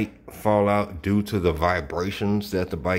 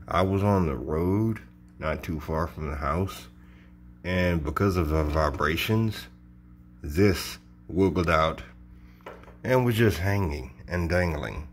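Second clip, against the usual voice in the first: talking around a cigar; words muffled by a cigar; cigar in mouth. Real, not acted. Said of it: "I have a cigar in my mouth".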